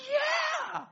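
very high, loud long yell; crowd cheer. Retold or imitated. Whole camp answering the leader, screamed cheer. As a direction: scream back like a frenzied mob. Imitates kids roaring back.

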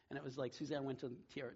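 ordinary talk, nothing marked

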